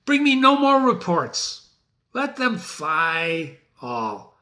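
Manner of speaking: defiant command. Acted. Teacher reads Macbeth's defiant lines.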